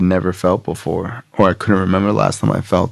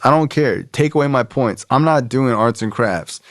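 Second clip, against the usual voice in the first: higher-pitched, mildly stubborn retort; defiant refusal; 4 semitones higher than usual. Retold or imitated. Grown man refusing arts and crafts, mildly defiant. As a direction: retell it as a stubborn protest.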